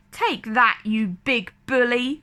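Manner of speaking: a touch of taunting cheek; mildly mocking jeer; lightly voiced taunt at the stuck shark. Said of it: "Flounder jeered".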